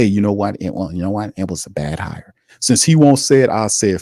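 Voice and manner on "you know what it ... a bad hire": a quick, softer mock of a stubborn manager's excuse, trailing off; hint of a grudging boss finally admitting it; mock Mickey Loomis. Rant host mocks the GM with a soft, fading mock admission. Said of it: "too stupid and egotistical to even say".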